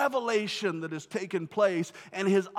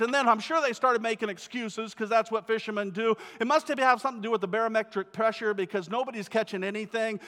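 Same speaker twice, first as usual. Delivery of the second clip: ordinary delivery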